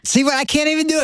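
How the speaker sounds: high, badly faked Scottish accent; high-pitched Scottish accent, giving up; attempted Scottish accent. Shown as a demonstration. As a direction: have a failed go at a Scottish accent. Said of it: "are you Scottish?".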